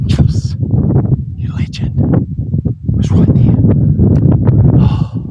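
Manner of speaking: loud elated yell; excited shout. Real, not acted. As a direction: celebrate the hit out loud. Just shot a deer, celebrating.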